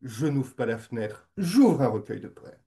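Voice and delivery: imitation légèrement lyrique d'un poète. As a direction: declaim it lightly, in measured phrases with pauses. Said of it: "disait de façon très lyrique". (sur un ton lyrique, un peu déclamé)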